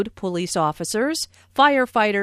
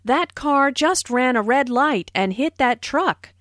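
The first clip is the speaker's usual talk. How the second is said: with a lot of energy; 3 semitones higher than usual. Shown as a demonstration. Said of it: "is said with a lot of energy".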